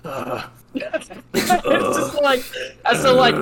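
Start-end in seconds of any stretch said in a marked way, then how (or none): 0.1-0.5 low, soft imitation of an old man's groan; old man's grunt. Husband hearing about the mask, mock old-man groan. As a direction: grumble out a mock weary ugh. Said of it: "this old, other old dude".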